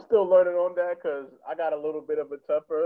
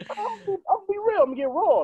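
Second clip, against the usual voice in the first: fired-up declaration. Retold or imitated. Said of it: "But I was mad".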